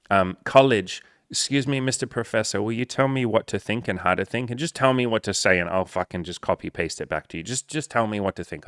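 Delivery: high, pleading voice asking the professor; mock a helpless student begging to be told; high mock plea; whiny student.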